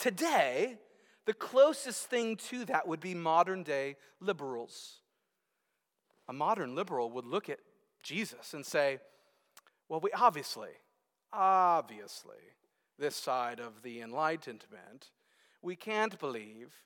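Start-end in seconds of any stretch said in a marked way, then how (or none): 9.9-16.7 haughty, low, put-on snobbish know-it-all voice. Speaker mimics what a modern liberal would say looking at Jesus: put-on snobbish voice. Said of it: "That's my really snobbish voice".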